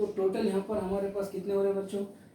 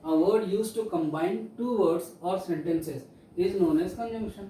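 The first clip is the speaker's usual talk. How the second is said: reading a definition aloud word by word; slow dictation; much slower than usual. Shown as a demonstration. Teacher dictating to students at a very slow pace. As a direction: dictate slowly so pupils can write it down.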